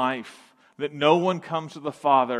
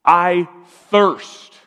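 mock gasp; 3 semitones higher, 10 dB louder than usual. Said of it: "He gasped".

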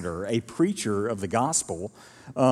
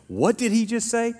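high pitched, incredulous question; shocked disbelief; 8 semitones higher than usual. Retold or imitated. Churchgoer asks a neighbour, high and incredulous, after a shocking remark. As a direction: ask as if you misheard something outrageous.

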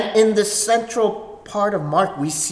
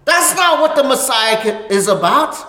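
loud, higher, stern condemnation; Peter's rebuke; 8 semitones higher, 6 dB louder than usual. Acted. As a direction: scold Jesus like Peter laying down the law. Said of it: "He's saying".

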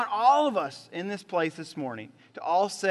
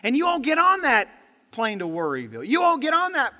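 emphatic preaching; 5 semitones higher, 5 dB louder than usual. Acted. Preacher building to punchline.

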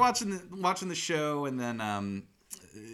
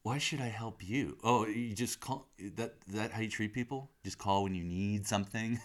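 sarcastic; 5 dB quieter than usual. Retold or imitated. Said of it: "He's really laying on the sarcasm".

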